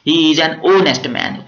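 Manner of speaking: He is an honest man spoken very slowly; slow dictation. Shown as a demonstration. Teacher dictates the example to students, very slowly. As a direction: read it out word by word for the class. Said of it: "teacher reads example sentence".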